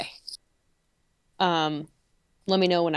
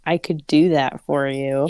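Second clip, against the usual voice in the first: smug; 5 semitones lower, 4 dB louder than usual. A narrator's reading. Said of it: "His smug voice floated through the air".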